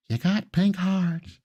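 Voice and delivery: slow, badly faked Irish Southern accent. Host's second try at an Irish Southern accent. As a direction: stretch it out in a half-hearted Irish-Southern blend. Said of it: "Can I do an Irish Southern accent?".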